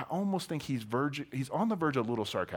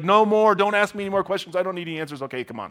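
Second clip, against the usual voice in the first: overwhelmed plea; 4 semitones higher, 7 dB louder, faster than usual. Retold or imitated. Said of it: "he's like".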